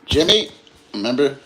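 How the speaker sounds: mock Road House line; Wade Garrett quote. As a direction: call out like the movie mentor. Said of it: "Wade Garrett's the best".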